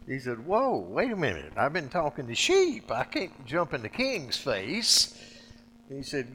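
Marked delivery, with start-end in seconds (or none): 0.5-5.2 higher, louder alarmed protest, slowing at the end; startled protest. Acted. Moses protesting to God, alarmed and loud. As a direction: balk at the order.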